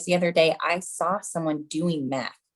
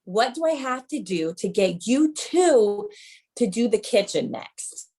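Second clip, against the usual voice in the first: mock flip-out; 3 semitones higher than usual. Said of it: "I flipped out".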